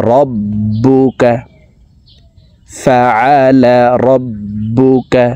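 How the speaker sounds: "রব্বুকা" with the b held and released twice; tajweed drill stressing the double b in "রব্বুকা"; doubled consonant. Shown as a demonstration. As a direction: slowly chant "রব্বুকা", leaning on the doubled b. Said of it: "তাসদিদওয়ালা হরফ দুইবার উচ্চারণ করিয়া পড়িতে হয়".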